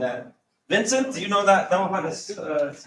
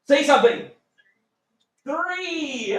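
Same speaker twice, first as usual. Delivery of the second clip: impatient prod; 9 semitones higher, slower than usual. Real, not acted. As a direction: push them to speak up. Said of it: "teacher prodding silent class".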